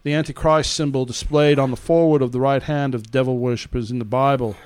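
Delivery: lightly put-on New Zealand reporter accent; reading as him, Antipodean accent. Host reading the implant article, loose New Zealand accent. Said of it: "I'm gonna read it as him".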